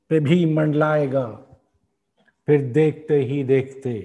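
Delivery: measured Urdu verse, line by line with pauses; poem recitation. Acted. Host reciting a poet's symbolic nazm, measured recitation. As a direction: recite the nazm slowly and rhythmically.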